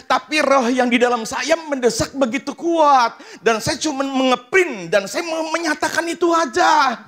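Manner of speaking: high, loud preaching cry; full-force preaching. Acted. Preacher crying out to the congregation, full-force preaching. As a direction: preach it out, pushing hard.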